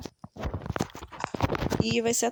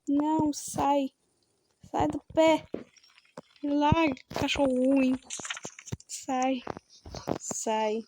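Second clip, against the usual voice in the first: being chased; 3 semitones higher, much slower than usual. Real, not acted. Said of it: "porque eu tenho medo".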